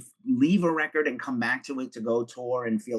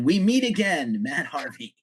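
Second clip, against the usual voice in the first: movie villain voice; 5 semitones higher, slower than usual. Pretend. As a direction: greet him like a movie villain. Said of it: "With that voice".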